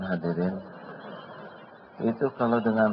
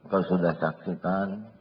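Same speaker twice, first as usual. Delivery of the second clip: humble prayer; 4 dB quieter than usual. Acted. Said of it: "ambil wudhu".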